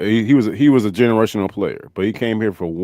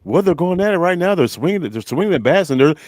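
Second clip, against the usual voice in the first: a slightly higher, lightly voiced play-by-play caller; mock announcer impression; 5 semitones higher than usual. Joking to the guys, a lightly voiced announcer call. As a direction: ham up a baseball announcer describing the bats. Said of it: "Here's my Snit impersonation".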